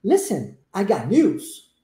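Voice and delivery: slow, deliberate model sentence with stretched "news"; listen-and-repeat model. Shown as a demonstration. Teacher modelling for students with closed eyes, slow repeat-after-me. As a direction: say it slowly for learners to copy. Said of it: "listen and repeat".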